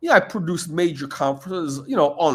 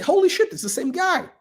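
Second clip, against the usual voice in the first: shocked recognition; 14 semitones higher than usual. Retold or imitated. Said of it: "I say".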